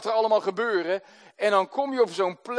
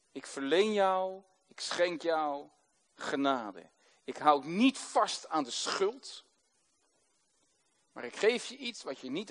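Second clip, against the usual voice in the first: tender; 4 semitones lower, 7 dB quieter than usual. Shown as a demonstration. Pastor voices forgiving prayer softly.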